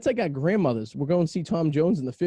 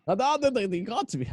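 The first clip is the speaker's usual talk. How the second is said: put-on Australian accent; 7 semitones higher than usual. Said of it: "I can't do an Australian accent".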